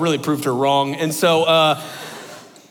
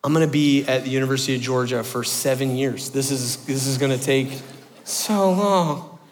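despairing; 3 semitones lower, 4 dB quieter than usual. Retold or imitated. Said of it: "I'm like".

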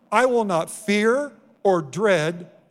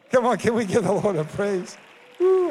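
rousing call; 3 semitones higher than usual. Real, not acted. Calls congregation to praise.

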